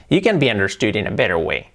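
"better" with tapped T; corrected pronunciation. Shown as a demonstration. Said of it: "como dice él, no".

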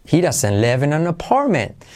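"live" and "apartment" accented in a smooth line; linked sentence with beats on "live" and "apartment"; stress on live, apartment. Shown as a demonstration. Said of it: "Acentuamos live en apartment".

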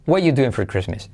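"What you doing for Christmas" starting "wa you"; third option. Shown as a demonstration. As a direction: leave out T and "are" in "What you". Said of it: "Tercera opción". («What you doing for Christmas» omitiendo el verbo)

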